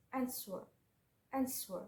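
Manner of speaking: "answer" with the first syllable stressed, the second unstressed; emphasize the first syllable of "answer"; "answer", weight on the first syllable, falling away after. Shown as a demonstration. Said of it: "you must emphasize the first syllable".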